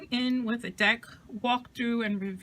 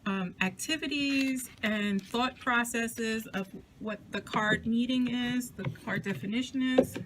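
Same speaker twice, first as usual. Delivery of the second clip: out of breath. Real, not acted. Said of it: "Sorry, I'm out of breath".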